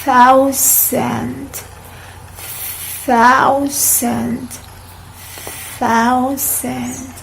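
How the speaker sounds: "thousand" drawn out, each TH soft with the tongue out; slow soft th demo. Shown as a demonstration. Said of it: "repeat, please".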